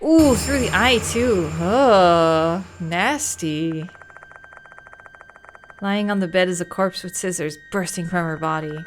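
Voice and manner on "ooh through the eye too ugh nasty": grossed out. Real, not acted. Sees the gory corpse.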